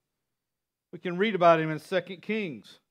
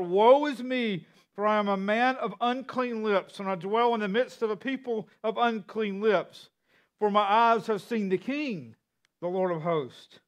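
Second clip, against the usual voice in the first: mildly raised voice of lament; crying out; 3 semitones higher than usual. Acted. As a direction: cry it out with measured preacher's emphasis. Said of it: "and then he cries out".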